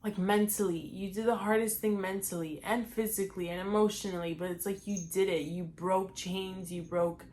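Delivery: quietly moved, real emotion held in; emotional. Real, not acted. Vlogger imagining her old self's pride, quietly emotional. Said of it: "I was not trying to get emotional there".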